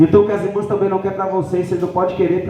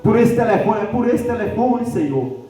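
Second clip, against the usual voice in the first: higher, pleading mock-tearful voice; imitated tearful prayer; 6 semitones higher than usual. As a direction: act out her tearful thanks, dropping on the last word. (imitando uma oração chorosa)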